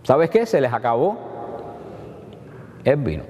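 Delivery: a mother's offhand, confiding word; a mother's aside to her son that the wine has run out; casual confiding. Shown as a demonstration. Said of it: "¿Qué le dijo María?".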